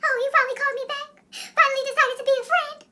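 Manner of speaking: very high, whiny accusation; mock a tearful friend guilt-tripping, squeaked out; hammed-up upset squeal; imitated crying friend. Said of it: "and she's still crying and stuff".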